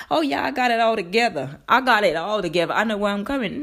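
put-on American accent, mock-confident; cocky claim in a light American accent. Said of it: "sorry about the American accent".

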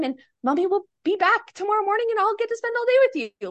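put-on high, singsong promise to a child; reassuring parent. Mom leaving her upset son for the night, reassuring. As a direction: lift the voice to soothe a little one.

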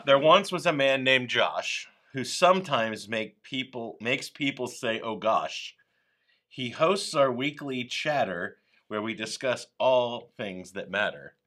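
reciting a limerick aloud. Pretend. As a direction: read it like a playful limerick. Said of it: "so here's a limerick".

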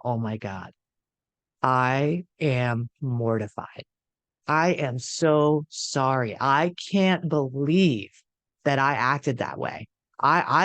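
slow, hushed imitation of a contrite drinker; a lightly voiced groveling morning-after apology; mock remorseful apology. Imitating a drinker who wakes up and apologizes, slow and hushed.

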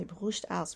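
put-on "Brust aus" said in German with a self-confessed clumsy accent. Quoting grandmother's German saying, rough German accent. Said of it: "sorry for my terrible accent in German".

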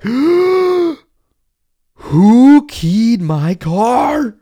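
high, loud, slow outraged cry; outraged shout. Retold or imitated. Driver discovering his keyed car, outraged shout. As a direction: howl it at the scratched car. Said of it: "you're like".

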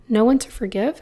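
disbelieving question; incredulous. Acted. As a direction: ask it in disbelief. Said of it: "somewhat incredulously".

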